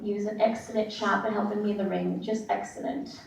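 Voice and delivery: put-on softly done, light English accent. Wrestler honoring her in-ring helper, light mock English accent. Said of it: "That was my English accent for him".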